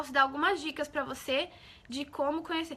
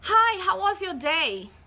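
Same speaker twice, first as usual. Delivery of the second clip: slow, loud, high English line; spoken line in English; 5 semitones higher, 5 dB louder, much slower than usual. Retold or imitated. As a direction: say it like the actor on screen, slowly. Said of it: "o cara vai falar assim".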